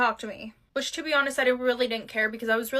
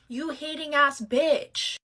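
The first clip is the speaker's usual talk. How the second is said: sassy insult aside; 2 semitones higher, slower than usual. Pretend. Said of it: "I didn't say that".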